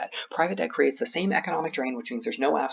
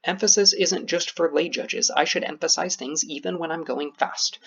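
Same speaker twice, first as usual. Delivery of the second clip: slow, deliberate drill; slower than usual. Shown as a demonstration. Coach models a repeated drill.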